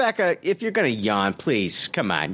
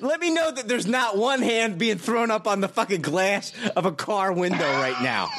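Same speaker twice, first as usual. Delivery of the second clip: sarcastic; 4 semitones higher than usual. Acted. Sarcastic rant at yawning cohost.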